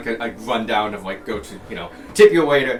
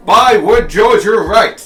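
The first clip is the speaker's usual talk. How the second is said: loud, high jolly toff cry; posh exclamation; 8 semitones higher, 10 dB louder, slower than usual. Acted. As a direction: exclaim like an old-school gent. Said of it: "it's like".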